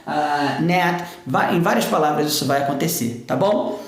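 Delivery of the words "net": "net" with the final T unreleased; held T. Shown as a demonstration. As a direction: stop "net" on the palate. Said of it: "a gente utiliza esse T preso".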